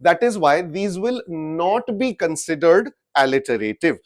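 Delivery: very slow, each word set apart; slow emphatic. Shown as a demonstration. Teacher stressing the rule to the class, very slowly. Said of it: "stating the rule".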